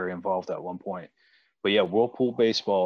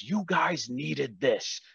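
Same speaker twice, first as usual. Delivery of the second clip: a hint of the red-faced coach, higher; ejected coach's parting words; 6 semitones higher than usual. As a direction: play the coach calmly leaving after getting tossed. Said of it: "and he goes".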